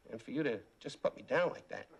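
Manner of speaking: low, faked heartbroken voice; faked hurt. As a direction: pretend to be crushed. Fake wounded host.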